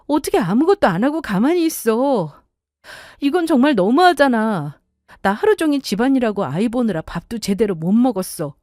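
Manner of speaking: exasperated wife airing her grievance; fed-up wife. Acted. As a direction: reproach your husband in a rising, aggrieved voice. Acted wife pleading with husband.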